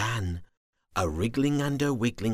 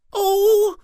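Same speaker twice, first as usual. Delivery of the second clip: grumbling; 14 dB louder than usual. Acted. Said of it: "he grumbled".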